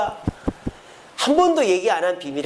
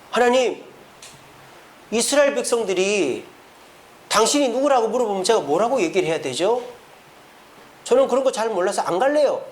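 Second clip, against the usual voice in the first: mild mock defiance, a little raised; defiant back-talk; 3 semitones higher than usual. Moses talking back to God about the mission, mildly defiant. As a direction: play a child talking back. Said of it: "대드는 거예요".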